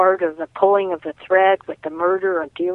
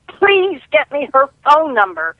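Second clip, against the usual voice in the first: put-on much higher, louder shout in a British accent; host yelling on air in a British accent for the caller; 8 semitones higher, 4 dB louder than usual. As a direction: bellow it across the airwaves in a British accent. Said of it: "he yells in his British accent".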